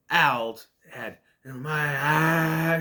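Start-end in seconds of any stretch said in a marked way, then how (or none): 1.4-2.7 drawn-out mock wail; mock spooky wail. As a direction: stretch it out like a spooky head. Voices the scary severed head.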